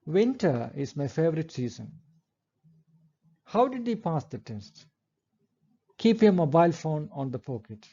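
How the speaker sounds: each sentence ends on a falling tone; falling tune. Shown as a demonstration. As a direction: let the voice drop at the end of each sentence. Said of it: "we use a falling intonation".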